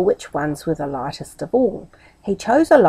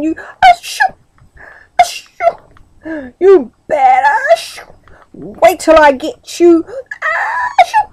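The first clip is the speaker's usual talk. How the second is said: scolding through sneezes; 10 semitones higher, 7 dB louder, slower than usual. A narrator's reading.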